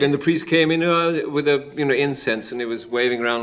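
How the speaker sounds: usual speaking voice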